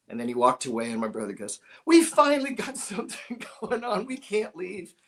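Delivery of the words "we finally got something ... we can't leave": high, quick, laughing plea; brother's excited high plea. Retold or imitated. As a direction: beg to stay, thrilled. Brother pleading to stay.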